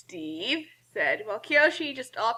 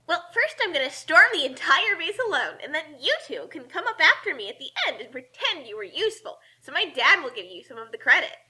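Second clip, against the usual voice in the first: put-on cocky girl voice; 4 semitones higher than usual. Kasumi boasting her plan.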